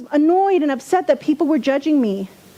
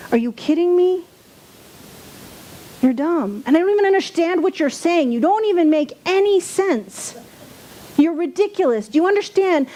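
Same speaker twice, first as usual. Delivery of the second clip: indignant rant; 6 semitones higher than usual. Retold or imitated. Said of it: "I get really upset and indignant".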